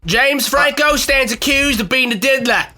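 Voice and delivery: slow, deliberate courtroom charge; lightly put-on English prosecutor; mock prosecutor. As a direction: read the accusation with mock pomp.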